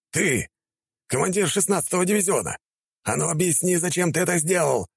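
high, angry demand; growled demand. Acted. Commander growls at the attacker, angry and demanding. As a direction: shake him with your voice. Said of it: "прорычал он".

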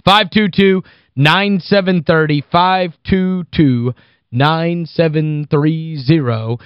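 deliberate slow number read; slow phone number. Acted. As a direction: spell it out slowly for listeners. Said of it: "phone number read slowly".

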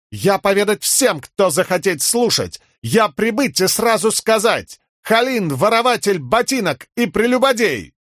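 hammed-up Horneater accent. A narrator's reading. Fake Horneater public denunciation.

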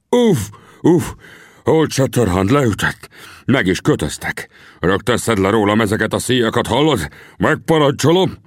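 high, indignant chief's exclamations; outraged outcry. A narrator's reading. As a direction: cry out, then order them around. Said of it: "és felkiáltott". (felháborodott, parancsoló felkiáltás)

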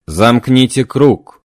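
slow, loud command to the circle; slow commanding medium. Acted. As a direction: order them to join hands, slowly.

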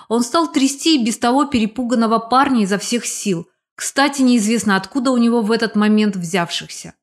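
ordinary delivery

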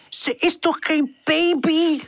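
high, drawn-out amused question; amused, starting to laugh. A narrator's reading. Charlie reacting to the nap idea, amused. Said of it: "Charlie begint te lachen".

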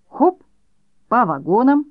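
mother playing along with the boys' train game, cheerful high call; playful call. A narrator's reading. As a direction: call all aboard like a train conductor.

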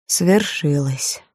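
slow, sorrowful whisper-soft; a gentle grieving murmur right at his ear; sad, soft voice. A narrator's reading. Melchior murmurs sadly into Barabbas's ear, slow and soft. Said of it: "сказал грустный и мягкий голос".

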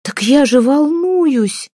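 high, slow, wailing through tears; crying. Acted. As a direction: wail it out, crying hard. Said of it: "Галя плакала". (плач навзрыд, высоко и протяжно)

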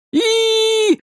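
long, high, slow squeal; boy squealing in terror; terrified squeal. A narrator's reading. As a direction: squeal in fright. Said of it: "заверещал Лексар".

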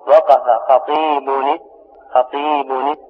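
خطيب said as khatibun-i, with a kasra on the nun before استمع; slow demo of وقف خطيب with the nun of خطيب voweled i; tanween with kasra. Shown as a demonstration. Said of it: "بالكسر".

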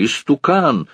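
«истукан!» thrown out high with a falling end; shouted insult. A narrator's reading. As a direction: hurl «истукан!» at him. Барыня кричит на старика. («истукан!» выкрикнуто высоко, с падением в конце)

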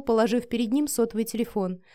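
ordinary delivery, nothing marked

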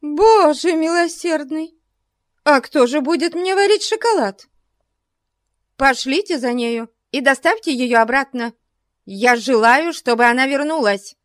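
put-on high, fretful old lady fuming. A narrator's reading. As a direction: boil over, demanding. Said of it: "кипятилась старая леди". (кипятясь)

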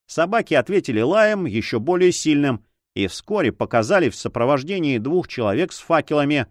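ordinary delivery, nothing marked

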